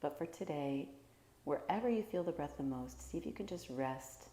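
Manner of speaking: calm, unhurried meditation guide with long pauses; guided meditation. Real, not acted. Teacher guiding listeners through a body scan, calm guided meditation. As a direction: gently lead them through each breath, leaving space.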